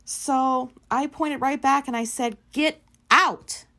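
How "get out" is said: loud, higher shouted order; retold yell. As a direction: shout it at her as loud as you can. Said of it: "I yelled it as loud as I could".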